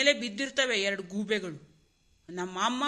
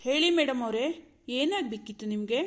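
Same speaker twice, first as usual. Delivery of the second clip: sarcastic. Acted. Husband asks madam what she wanted, sarcastic. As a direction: address her with needling false respect. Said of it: "ಯಾಕೆ ಇಷ್ಟೊಂದು ವ್ಯಂಗ್ಯವಾಗಿ ಮಾತಾಡ್ತೀರಾ?".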